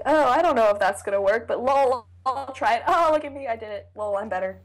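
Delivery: lightly voiced, cocky Splinter; breezy self-congratulation with a lifted, bouncy pitch; mock smug. Host mocking Splinter's casual, show-off fix, mock smug. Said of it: "here comes Splinter ... just like".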